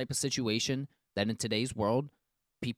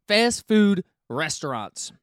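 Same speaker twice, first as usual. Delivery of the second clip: hype announcer; 8 semitones higher, 7 dB louder, much slower than usual. Acted. Hyped announcement of his list.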